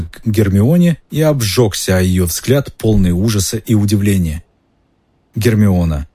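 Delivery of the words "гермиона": ordinary delivery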